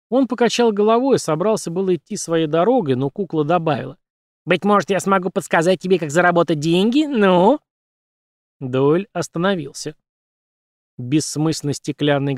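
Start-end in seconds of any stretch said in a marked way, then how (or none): 4.4-7.6 high puppet voice; wheedling puppet squeak; squeaky puppet. Acted. Puppet Punch speaking.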